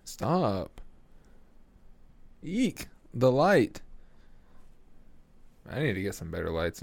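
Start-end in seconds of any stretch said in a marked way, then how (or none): 0.0-0.8 whispering stop at the cat; whispered stop. Real, not acted. 2.4-3.8 sudden high yelp of alarm; startled high eek then louder; startled squeak. Real, not acted. Startled by the light.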